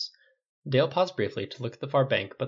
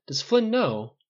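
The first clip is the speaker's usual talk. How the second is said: high, louder urgent question; demanding; 11 semitones higher, 5 dB louder, much slower than usual. A narrator's reading. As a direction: press urgently for the answer. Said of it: "Paul demanded".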